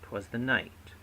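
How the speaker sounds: "'Twas the night" with two slack words, then stressed "night"; stress on last word. Shown as a demonstration. Teacher demonstrating an anapest, stress on "night" in "'Twas the night". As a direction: pass lightly over "'Twas the" to land on "night". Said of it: "two slack followed by one stressed".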